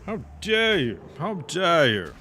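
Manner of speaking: hammed-up indignant shout, high and loud; mock outrage. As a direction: play it like a scandalised aristocrat. Knocked into the air by mob.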